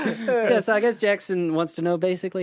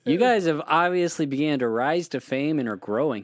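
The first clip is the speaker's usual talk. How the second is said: put-on Canadian accent. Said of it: "should I read in a Canadian accent".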